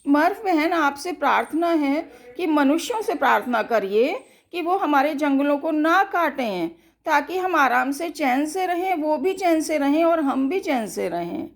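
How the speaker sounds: lightly voiced animal, fast and earnest; pleading animal. Forest animal pleading with sister Murph, fast and earnest.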